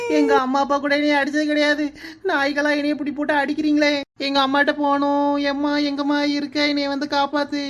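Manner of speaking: sobbing, calling out for her mother; crying plea. Acted. Beaten captive girl sobs for her mother. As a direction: cry it out like a beaten child.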